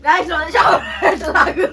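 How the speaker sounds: loud, urgent plea; urgent shout. Real, not acted. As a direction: shout out for the candy. Begging for candy after chili.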